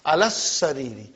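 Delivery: "Alas sariri" with the s held double; shadda. Shown as a demonstration. Teacher repeating to show the shadda, "Alas sariri" with doubled s. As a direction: stretch the s joining "Alas sariri". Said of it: "It's a shadda".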